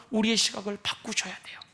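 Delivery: hushed whisper, unvoiced; whispered urging. Real, not acted. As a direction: drop to a whisper to press the point. Preacher urging softly.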